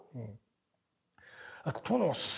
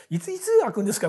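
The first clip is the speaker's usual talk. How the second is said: mock Osaka complaint; 4 semitones higher than usual. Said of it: "みたいな大阪弁でずーっと文句言ってたわ".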